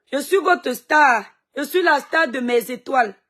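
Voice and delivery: grand proclamation. Real, not acted. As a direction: savour every word like a diva. Proclaims herself star to fans.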